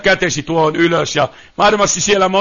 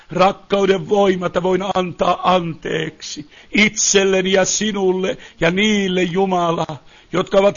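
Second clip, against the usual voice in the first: humble prayer. Real, not acted. Preacher asks Jesus for power to forgive, humble prayer.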